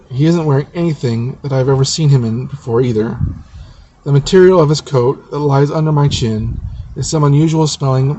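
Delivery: measured first-person story narration. A narrator's reading. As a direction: read the chapter aloud in phrases. Reads own novel aloud.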